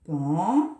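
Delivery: Pantalon split into pan-ta-lon beats; syllable by syllable. Shown as a demonstration. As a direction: tap out Pantalon one syllable at a time. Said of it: "On la cherche ensemble". (Pantalon scandé syllabe par syllabe)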